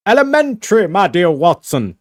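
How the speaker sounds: light Sherlock Holmes impression. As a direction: play Sherlock Holmes smugly, a bit hammed. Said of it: "think of, like, Sherlock Holmes".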